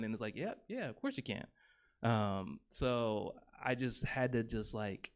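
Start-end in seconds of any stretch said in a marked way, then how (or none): 0.3-1.5 placating. Retold or imitated. Placating reply, high and soft.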